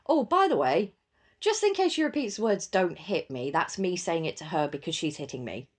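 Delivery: explaining to school. Retold or imitated. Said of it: "I was like".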